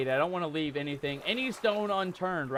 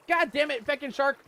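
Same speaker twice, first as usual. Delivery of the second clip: frustrated cursing; 7 semitones higher, 4 dB louder than usual. Real, not acted. After the shark bite.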